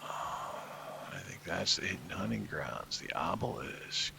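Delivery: hushed whisper. Real, not acted. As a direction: whisper it, close to the mic. Sneaking up on hidden hunting grounds.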